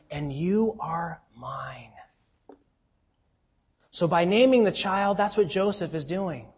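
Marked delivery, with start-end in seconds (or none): 0.1-1.9 breathy hushed whisper of God's assurance; whispered promise. Acted. Preacher reading God's promise to the congregation, whispered. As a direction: breathe it like a secret comfort.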